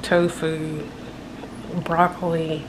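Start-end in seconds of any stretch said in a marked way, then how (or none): none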